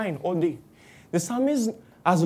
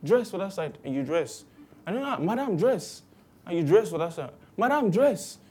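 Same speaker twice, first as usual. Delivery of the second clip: bus passenger; 3 semitones higher than usual. Retold or imitated. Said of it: "someone enter and say".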